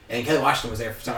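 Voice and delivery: ordinary talk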